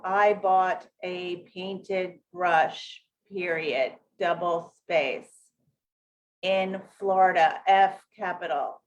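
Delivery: slow, word-by-word dictation; deliberate slow reading aloud with punctuation spoken; slow proofreading read. Shown as a demonstration. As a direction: read it out slowly like proofreading a press release. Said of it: "very, very slowly like that".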